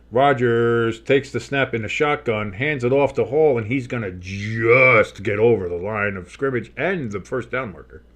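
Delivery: measured call with key words stretched out; play-by-play announcer. Pretend. Streamer calling a handoff to viewers, play-by-play. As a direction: draw out the call as the runner inches forward.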